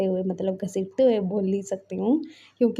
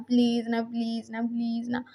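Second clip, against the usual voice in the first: softer, fading please; soft begging; 5 dB quieter than usual. Retold or imitated. Husband coaxing his brother to spare his alpha, quiet begging. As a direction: beg quietly, voice sinking away. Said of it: "please बोल के मना रहा है".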